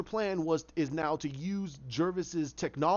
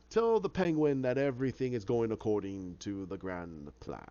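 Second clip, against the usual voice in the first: lower, slow triumphant menace; gloating villain; 5 semitones lower, slower than usual. Retold or imitated. Hatter gloating over his plan, low and slow.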